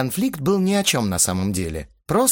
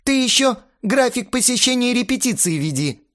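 high, raised-voice jibe; angry sarcasm; 4 dB louder than usual. A narrator's reading. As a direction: throw out a heated jibe. Astarot's angry sarcastic retort. (язвительно, на повышенных тонах)

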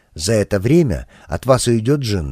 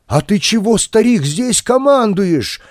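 defiant challenge; 10 semitones higher than usual. Acted. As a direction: pick a fight with the old man. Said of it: "попытался было воевать Жечка".

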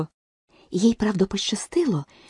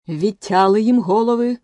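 queen shouts; 3 semitones higher, 5 dB louder than usual. A narrator's reading. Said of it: "крикнула королева солдатам".

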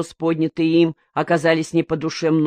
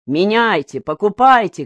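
rising mock shout, louder on покупайте; 4 semitones higher, 5 dB louder than usual. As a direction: flung at the crowd, half-hearted yell. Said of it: "кричал Коника".

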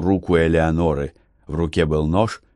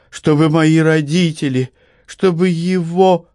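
put-on higher young woman, breaking toward tears; girl on the edge of sobbing; Eleonora's voice; 7 semitones higher than usual. A narrator's reading. (голос Элеоноры, на грани слёз)

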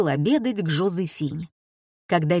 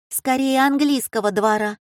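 sly remark; 6 semitones higher than usual. A narrator's reading. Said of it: "тонко улыбнувшись, вставила Зоя".

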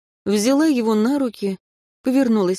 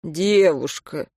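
sour grimace; 3 semitones lower, slower than usual. Acted. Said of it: "сморщился, как от кислого".

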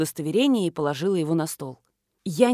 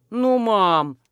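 whining; 4 dB louder than usual. A narrator's reading. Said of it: "заныл Никита".

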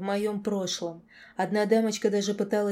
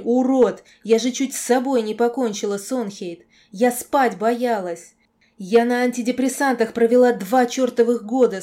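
anguished screaming rage; 3 semitones higher, 9 dB louder than usual. A narrator's reading. Girl in tears accusing her nightmare, screaming rage. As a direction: pour out the hurt at full volume.

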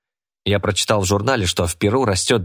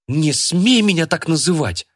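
indignant exclamation; 9 semitones higher than usual. Acted. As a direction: snap back, offended. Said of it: "воскликнула Джорджия".

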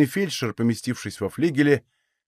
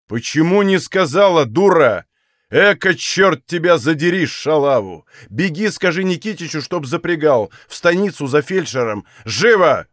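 loud barking orders; furious old master; 4 semitones higher, 6 dB louder than usual. Acted. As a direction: yell at the maid to hurry.

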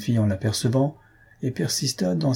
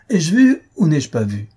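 loud, raised-pitch challenge; angry yell; 6 semitones higher, 6 dB louder than usual. A narrator's reading. Husband challenges the girl over what he saw, angry yell. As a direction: demand it angrily, pitched up. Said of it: "Hurla notre homme".

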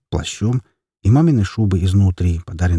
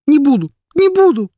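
tantrum; 5 dB louder than usual. Acted. Boy tantrum.

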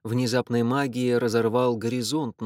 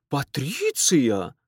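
aunt's cry; 3 semitones higher, much slower than usual. A narrator's reading. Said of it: "вскричала её тётка".

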